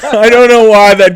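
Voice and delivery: high, loud, laughing through words. Real, not acted. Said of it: "breaking into this old-timey voice".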